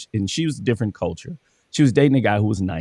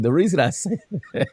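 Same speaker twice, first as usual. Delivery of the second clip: laughing through quote; 6 semitones higher, faster than usual. Retold or imitated. Wife's words retold while laughing.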